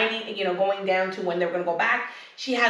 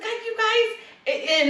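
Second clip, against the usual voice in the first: drawn-out high exasperated groan at the cast; slow, pitched-up disbelief; exasperated scolding; 11 semitones higher, much slower than usual. Retold or imitated. Podcaster scolding reality show cast, slow high exasperation. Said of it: "I was just like".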